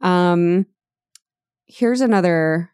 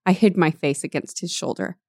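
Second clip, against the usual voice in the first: normal talking voice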